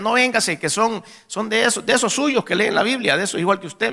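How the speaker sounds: imitando una súplica insistente, algo más aguda. Retold or imitated. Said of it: "insistía". (insistente, intentando convencer)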